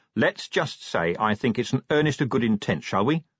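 ordinary talk

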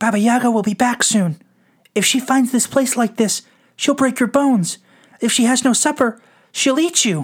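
tiny, squeaking, very high little mouse voice. Narrator voices the little mouse speaking to Anna, squeaky little mouse voice. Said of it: "was the mouse who had helped her with her chores".

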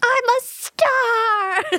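very high, acted scream with the word "star" drawn out. Recalling the Pearl movie, imitating her screaming line. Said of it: "she's screaming".

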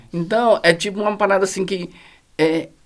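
ordinary delivery

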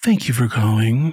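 low, sultry, breathy-toned voice. Describing a woman she worked with, the speaker imitates her sultry phone voice. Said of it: "she had this phone voice that was very like".

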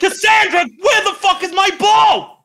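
very shrill, very high, full-voice, top-of-lungs yell. During a comedy show bit, calling out for someone, shouting at the top of voice. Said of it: "shouting the name Cassandra at the top of my".

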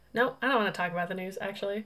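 normal talking voice

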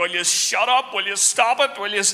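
put-on, repeated, demanding scolding. Retelling dinner fights with his brother, imitating mom scolding. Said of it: "she's like".

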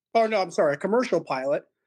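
plain

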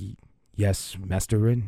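confused, concerned butler voice. Voicing a servant who sees a backpack: confused, concerned butler voice. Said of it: "he's kind of confused. He's kind of, like, concerned".

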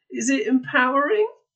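very high, strained voice. Re-enacting asking the other speaker about music videos: put-on strained voice. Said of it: "ask you in a strained voice".

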